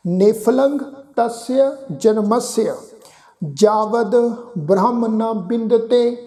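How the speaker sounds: slow, measured recitation of the verse; scripture recitation. Shown as a demonstration. Teacher reciting the Gurbani line for students, slow and measured. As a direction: chant the line slowly and deliberately. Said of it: "ਸ਼ਬਦ ਦਾ ਪਾਠ ਉਚਾਰਨ ਕਰਾਂਗੇ".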